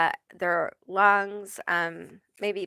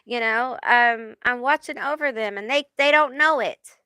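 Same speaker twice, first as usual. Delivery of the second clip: lightly voiced Joe Pesci, higher and quick; a hint of Joe Pesci, higher; 4 semitones higher than usual. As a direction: play a wistful tough-guy angel. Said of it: "like Joe Pesci".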